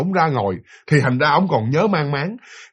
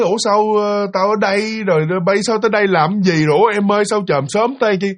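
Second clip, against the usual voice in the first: higher-pitched, puzzled questions; ngơ ngác; 4 semitones higher than usual. Retold or imitated. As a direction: act out a bewildered man coming to. Ông Năm tỉnh dậy, ngơ ngác hỏi. (giọng ngơ ngác, cao hơn)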